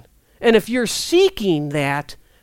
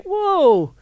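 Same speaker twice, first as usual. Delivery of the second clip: startled whoa; 8 semitones higher than usual. Retold or imitated. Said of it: "and you're like".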